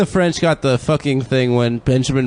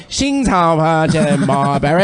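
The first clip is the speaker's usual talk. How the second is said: mock Chinese translator; 3 semitones higher, slower than usual. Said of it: "a translator that's like".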